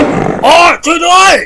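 very high, drawn-out scream for help; acted high-pitched distress call; shouted cry for help. A narrator's reading. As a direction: holler desperately for rescue. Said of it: "ได้ยินเสียงตะโกนของชาวลิต".

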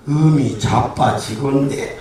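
slow, low Chungcheong drawl; 충청도 사람. Acted. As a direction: drag it out like an unhurried Chungcheong man. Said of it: "충청도 사람은". (느릿느릿한 충청도 말투)

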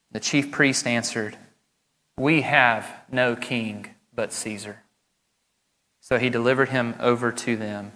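measured, solemn Bible reading; scripture reading. Acted. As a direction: read the passage aloud to the congregation.

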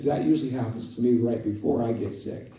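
low, understated kindness; gently reassure, as she did; retold kindly reply. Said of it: "she said to me very kindly".

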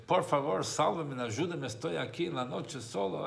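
a stranded man calling to be let in; pleading cry for help. Retold or imitated. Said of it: "Grita y golpea". (súplica a gritos, medio actuada)

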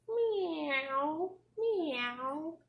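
cat meow. Pretend. Animal sound in picture book.

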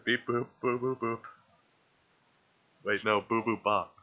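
cheerful beep boop chatter; toy robot voice. Pretend. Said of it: "robot talk".

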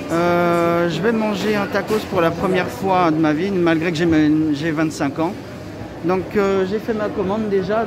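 muffled through cloth mask; speaking through face mask. Real, not acted. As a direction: mouth covered by fabric. Seen 0: White cloth mask covers mouth and nose throughout; absent in refs.

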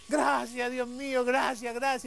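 high, eager acted thanks; grateful cry. Sailor given the map thanks God, acted grateful cry.

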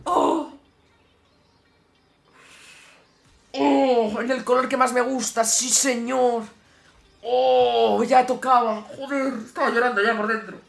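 elated relief. Real, not acted. Relieved joy after the win.

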